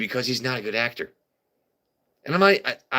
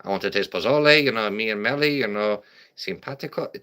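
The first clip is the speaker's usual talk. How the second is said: mock Latino accent. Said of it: "if I talk like this".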